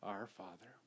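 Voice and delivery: hushed tender prayer. Shown as a demonstration. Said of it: "here's where I want you to start".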